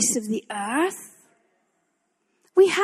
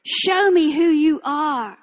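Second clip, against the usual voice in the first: slow challenge to God; 3 semitones higher, slower than usual. Retold or imitated. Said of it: "get up tomorrow morning and say".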